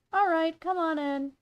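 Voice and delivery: lightly voiced mom character; a hint of a welcoming mother; Zoe's mother. Mother invites Claire inside, light character voice. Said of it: "how I did Zoe's mother voice".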